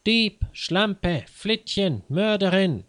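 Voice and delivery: high-pitched volley of insults; acted furious shrieking; piercing cries. A narrator's reading. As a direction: hurl each insult out high, enraged. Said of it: "Ihre gellenden Schreie schallten".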